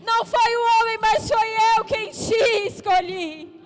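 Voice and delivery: climactic preaching. Acted. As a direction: preach at full force to the altar.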